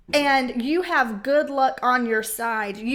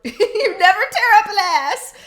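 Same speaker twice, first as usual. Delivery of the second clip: much higher, louder, laughing through it; 7 semitones higher, 10 dB louder than usual. Real, not acted. Laughing at empty parental threats, loud and high. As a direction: crack up at your own line.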